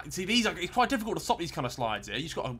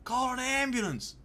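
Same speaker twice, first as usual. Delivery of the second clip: mock dramatic plea; 8 semitones higher, slower than usual. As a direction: drawl it like a faint hero in a film. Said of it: "but not for me".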